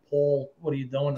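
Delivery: lightly imitated serious caller; all serious. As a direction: break it to him soberly. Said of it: "Like, all serious".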